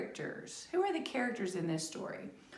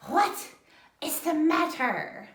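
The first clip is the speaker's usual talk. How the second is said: high-pitched, loud, drawn-out question; a bright, kindly deer voice; high concerned deer; 6 semitones higher, 5 dB louder than usual. Acted. Deer greets sad bear.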